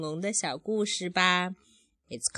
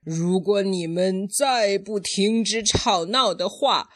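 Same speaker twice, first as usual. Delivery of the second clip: mildly raised mother's warning; loudly; 2 semitones higher, 4 dB louder than usual. Acted. Parent voicing the mother's warning, fairly loudly. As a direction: raise the voice a little to warn. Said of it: "很大声地说".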